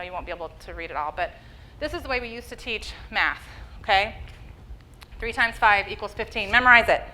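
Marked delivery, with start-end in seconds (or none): 5.2-7.0 louder, bossy teacher barking an order; mock stern old-school teacher. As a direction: play the old rote-learning teacher for a laugh. Mocking old rote math teaching.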